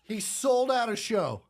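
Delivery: high, laughing words through giggles; can't stop laughing as you say it; cracking up, amazed; laughing in disbelief. Real, not acted. Laughing at the absurd story.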